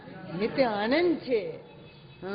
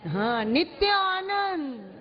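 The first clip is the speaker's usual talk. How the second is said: higher, joyful; 4 semitones higher than usual. Shown as a demonstration. Teacher shows students how to say it joyfully. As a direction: let the joy ring out. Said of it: "आनंद से बोलो इस बात को".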